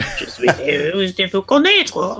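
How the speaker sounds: goofy put-on French; Brent Spiner. Mocking how Data speaks French, drawn-out goofy voice. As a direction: stumble through French in a silly character voice. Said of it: "uses Brent Spiner voice number two".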